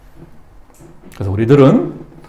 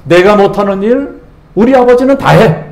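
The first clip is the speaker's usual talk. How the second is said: put-on child's boast; 3 semitones higher than usual. Voicing a small child.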